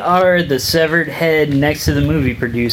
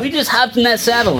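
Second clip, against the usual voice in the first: cowboy voice; 7 semitones higher than usual. Retold or imitated. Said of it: "The classic cowboy saying".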